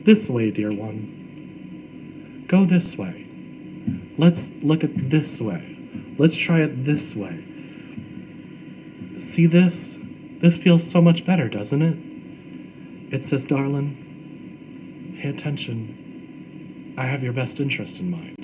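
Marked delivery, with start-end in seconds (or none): 0.0-12.0 gently coaxing guidance; lightly voiced, kindly higher self; loving God voice. Loving God voice guiding a dear one, gently coaxing. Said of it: "The loving God voice comes like this". 13.4-18.4 soft, gentle reassurance; lightly voiced tender counsel, easing softer; peaceful inner voice. Loving inner voice reassuring darling, peaceful. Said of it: "That's the peaceful voice".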